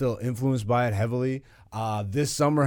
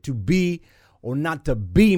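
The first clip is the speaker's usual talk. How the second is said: mock Shakespeare; 3 semitones higher, 6 dB louder than usual. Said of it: "black Shakespeare shit".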